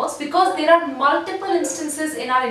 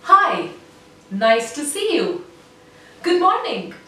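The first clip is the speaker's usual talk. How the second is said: nasal voice. Shown as a demonstration. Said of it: "activate the nose muscles, saying".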